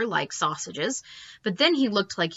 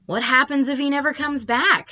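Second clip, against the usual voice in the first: put-on little girl voice; 7 semitones higher, 3 dB louder than usual. A narrator's reading. Worried little sister.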